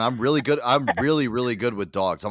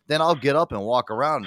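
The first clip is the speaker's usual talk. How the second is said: ordinary talk, nothing marked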